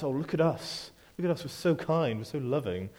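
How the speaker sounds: lightly mocking self-satisfied church voice; smug. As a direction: play the smug churchgoer, just a hint. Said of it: "It doesn't exude this smugness".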